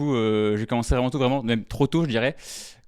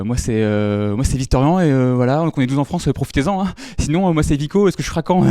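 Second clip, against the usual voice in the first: louder, rushed nervous stand-up intro; a terrified newbie blurting his act; panicked first show; 5 dB louder than usual. Retold or imitated. Comic mimics his first time on stage, tense and loud. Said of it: "J'arrivais comme ça".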